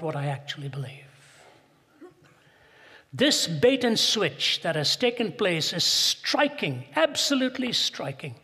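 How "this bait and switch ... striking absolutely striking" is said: slow, rising, louder emphasis; high, loud preaching emphasis; emphatic. Real, not acted. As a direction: hammer the word striking home. Preacher stressing the point.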